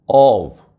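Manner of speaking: ऑफ with an open o and an unvoiced f; off with a clear f. Shown as a demonstration. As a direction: say ऑफ like off, ending on a hard f. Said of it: "O double F".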